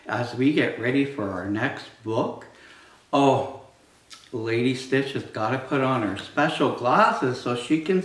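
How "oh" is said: plain reading voice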